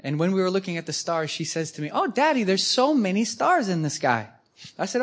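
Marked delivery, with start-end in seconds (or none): 1.9-4.3 lightly voiced little girl. Speaker voices his young daughter.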